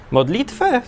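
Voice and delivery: incredulous. Acted. Guard amazed at offered prayer.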